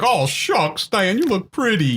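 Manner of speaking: high put-on hick accent for Nick Cage; goofy accent. Nick Cage's odd accent, sweet-talking Diane in the car. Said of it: "Again with that accent".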